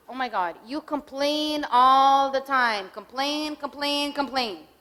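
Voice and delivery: mock the complaining partner, dragging each "complain"; mock dismissive scorn. Shown as a demonstration. Demo of a spouse belittling a tired partner, sarcastic and loud. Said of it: "A turning against would be".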